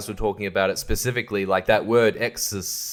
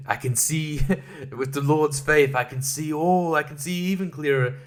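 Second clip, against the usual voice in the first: mock serene; 2 semitones higher than usual. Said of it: "she's just like".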